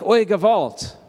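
a mock cry of dismay; heartfelt, punchy outburst; emphatic exclamation. Shown as a demonstration. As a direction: exclaim it like a Yiddish lament. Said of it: "say it like".

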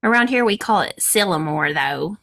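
Sylamore with a local Arkansas twang; southern accent. Shown as a demonstration. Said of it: "You gotta say it with an accent".

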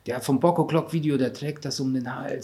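hammed-up wow, overexcited buyer; mock excitement. Mocking excited onlookers at parade.

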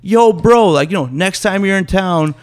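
lightly voiced party bro; imitating Rick. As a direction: play the eager, friendly bro inviting him out. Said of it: "it's exactly how you talk".

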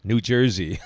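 put-on thick Russian accent, falling flat. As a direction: say it like a Russian wife. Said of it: "in a thick Russian accent".

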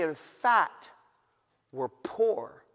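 normal talking voice

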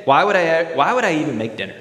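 bitter cynic. Acted. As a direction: rant like a resentful cynic.

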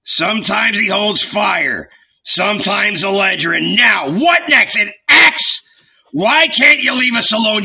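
high, exasperated tirade; loud, mocking bluster; shouted. A narrator's reading. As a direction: rant at them, out of all patience. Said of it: "he shouted".

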